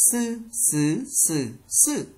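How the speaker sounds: "Sư" with a plain hissed s; Vietnamese-like S. Shown as a demonstration. Teacher modelling S for learners, "Sư" with plain Vietnamese s. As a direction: drill "Sư, sứ, sử, sự" tone by tone with a Vietnamese s. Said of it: "ét xê từ giống Việt Nam mình".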